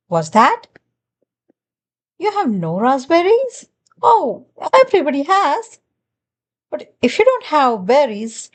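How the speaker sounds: a hint of a sly, sugary glunk, quick in places; lightly voiced glunk. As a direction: play the glunk, sweetly pushy, not far from your own voice. Glunk scolds, then back to mother.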